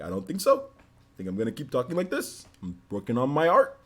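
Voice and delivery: lightly voiced cartoon bear; a hint of cartoon bear, lifting phrase ends; breezy refusal in a light cartoon bear voice; Yogi Bear. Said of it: "stop talking like that".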